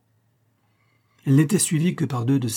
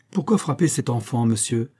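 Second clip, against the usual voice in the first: commanding tone. Acted. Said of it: "avec ce ton de maître".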